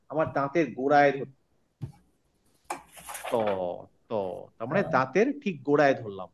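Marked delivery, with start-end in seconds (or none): 3.3-4.1 ত with tongue at the tooth ridge; tongue on the gum ridge, say ত crisply; demo sound ত. Shown as a demonstration. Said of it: "উচ্চারণ হচ্ছে, হচ্ছে আমার জিভটাকে নিয়ে গিয়ে".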